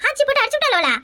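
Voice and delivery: high-pitched startled question; sharp rise of astonishment; shocked disbelief. Acted. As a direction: ask it aghast at the news. Mother hears startling news.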